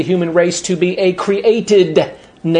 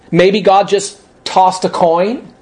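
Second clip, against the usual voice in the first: slow mocking echo rising at the end; scornful disbelief; slower than usual. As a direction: drag out "Maybe God just tossed a coin?" like it's ridiculous. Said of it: "That's a stupid comment".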